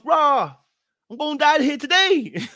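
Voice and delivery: half-joking panic about dying today; mock panic. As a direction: play up the fear of dying. Retold thought of dying.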